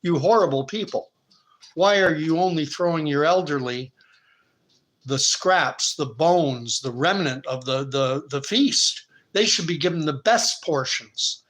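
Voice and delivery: Truth rebuking the villagers for starving their elders, indignant; righteous indignation. Acted. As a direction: scold the villagers for their greed. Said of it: "filled with righteous indignation".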